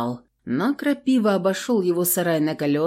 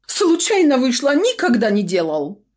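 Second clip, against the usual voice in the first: tearful begging; 7 semitones higher, 4 dB louder than usual. A narrator's reading. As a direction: sob out the apology. Shopkeeper crying, excusing himself.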